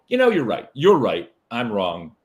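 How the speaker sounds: just give in and let it go; giving in. Shown as a demonstration. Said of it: "just go".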